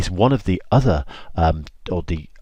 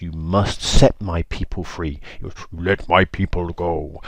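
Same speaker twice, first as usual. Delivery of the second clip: slow, weighty divine command; lightly voiced God, words drawn out; measured, solemn order; slower than usual. God commands Moses from bush.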